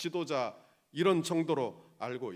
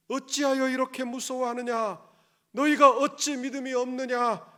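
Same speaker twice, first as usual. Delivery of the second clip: loud, higher rebuke of the disciples; Jesus rebuking; 8 semitones higher, 11 dB louder than usual. Acted. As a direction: demand it like a master scolding fearful followers. (겁먹은 제자들을 꾸짖는 예수님, 크고 높게)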